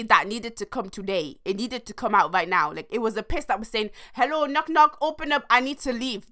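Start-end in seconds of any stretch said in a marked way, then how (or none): 4.1-6.3 lightly higher cartoon voice for the wee; playful voice of a bladder; voicing a wee. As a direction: make the wee knock politely. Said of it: "what my wee was saying".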